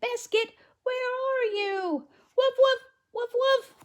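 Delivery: put-on bright, high read-aloud voice for the little girl; high storybook girl. Girl calls, puppy barks.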